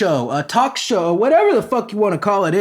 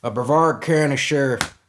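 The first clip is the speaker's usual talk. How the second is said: put-on country accent; 4 semitones lower, 3 dB quieter than usual. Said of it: "I gotta get the country accent for real".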